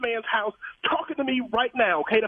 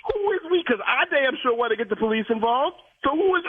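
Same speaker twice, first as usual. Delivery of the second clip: higher, sharp repeated question; angry challenge; 6 semitones higher than usual. Real, not acted. Car owner to manager, higher indignant demand. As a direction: pin him down, indignant.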